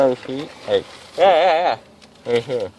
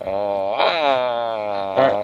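drowsy giggling after anesthesia; giggly and woozy; loopy giggle. Real, not acted.

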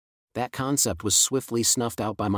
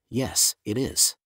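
annoyed; much slower than usual. Acted. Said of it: "I sounded annoyed as I said".

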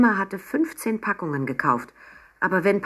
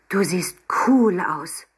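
slow, breathy hushed admiration; in awe of her mother; admiring whisper; 3 dB louder, slower than usual. Acted. Emma admires her elegant mother, slow awed whisper. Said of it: "sagte Emma bewundernd".

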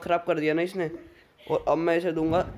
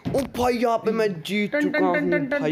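victory cry; 7 semitones higher than usual. Real, not acted. Winning the home wrestling match.

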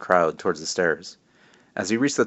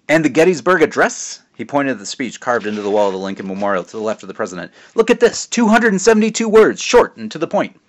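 higher, louder jovial dad voice; teasing dad; 6 semitones higher, 5 dB louder than usual. Acted. Father teasing his son at the memorial, jovial and loud. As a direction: play the proud joking father.

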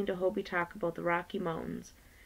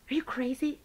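sharp higher snap of disbelief; snapping; 7 semitones higher than usual. Acted. Violet snaps at Hobie for stopping her, sharp higher retort. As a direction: bite it off at Hobie. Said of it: "Violet snapped".

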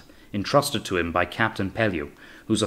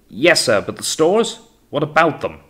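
high, loud questioning call; 7 semitones higher, 6 dB louder than usual. A narrator's reading. Junior officer asks captain about stores, calling up. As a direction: press the question from the boat.

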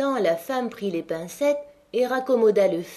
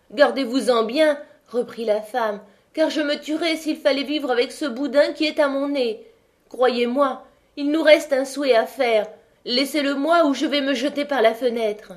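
desperate wife; 5 semitones higher, 4 dB louder than usual. Acted. Wife threatens to jump.

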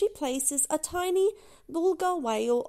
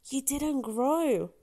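gentle; 2 semitones higher, slower than usual. Acted. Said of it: "Doc tells her".

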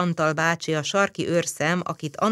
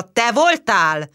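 slow, louder demand; shouting question; 5 semitones higher, 5 dB louder, slower than usual. Acted. Policeman to the girl he is shaking, slow loud demand. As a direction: shake the answer out of her.

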